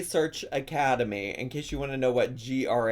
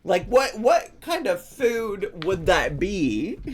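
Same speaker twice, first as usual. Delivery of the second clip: mock puzzled; 5 semitones higher, 3 dB louder, slower than usual. Real, not acted. Mock puzzled question to chat.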